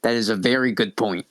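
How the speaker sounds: low raspy concession; Lady Vera. Acted. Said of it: "really raspy voice".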